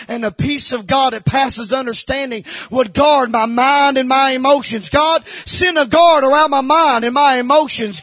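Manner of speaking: re-enacted prayer swelling to full preaching force; fervent prayer. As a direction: plead with God, rising into bold declaration. Re-enacts his prayer, building to shout.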